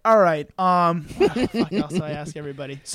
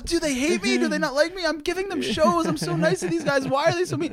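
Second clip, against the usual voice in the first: higher, whiny self-pitying voice; mock whiny self-pity; 9 semitones higher than usual. Comic mocking his younger self's hurt feelings, whiny. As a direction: play your own hurt feelings for laughs.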